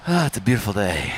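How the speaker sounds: a light nod to Mister Rogers. Retold or imitated. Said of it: "Mister Rogers".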